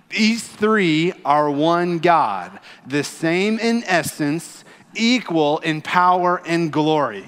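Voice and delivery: slow, measured unison recitation; congregational recitation. Shown as a demonstration. Pastor leading the congregation in reciting catechism, slow. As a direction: recite it slowly like a creed. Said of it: "together we are going to recite back".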